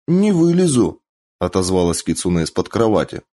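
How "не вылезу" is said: put-on high, stubborn pouting girl. A narrator's reading. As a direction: pout and refuse from under the bed. Kitsune under bed refusing.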